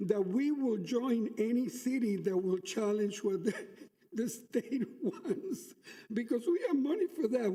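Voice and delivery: chuckling through the words; laughing while talking. Real, not acted. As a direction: laugh as you speak. Laughing through defiant remark.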